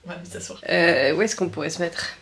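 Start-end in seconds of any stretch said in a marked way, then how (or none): 0.1-0.6 winded, almost voiceless; exhausted, breathing it out; breathless whisper. Real, not acted. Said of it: "je vais m'écrouler dans deux secondes".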